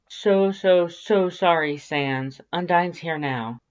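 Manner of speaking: panicked, talking fast to calm him; flustered. Acted. The narrator calling Sans back, flustered and high.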